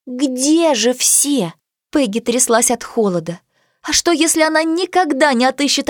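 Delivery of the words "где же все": very slow, worried puppy; lost and anxious. Acted. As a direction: ask it lost and scared. Lost puppy looks around.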